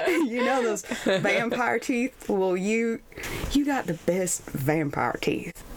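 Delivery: slow, hammed-up Southern drawl like Sling Blade; bad Southern accent. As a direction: imitate him in a badly done Southern accent. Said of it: "I sound like Sling Blade".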